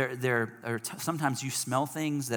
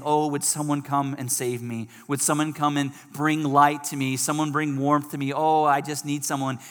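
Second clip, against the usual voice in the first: mildly raised, urgent plea; a touch of desperation, acted out; pleading cry; 2 semitones higher, 3 dB louder than usual. Freezing person begging someone to bring warmth, pleading cry. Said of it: "they're crying out saying".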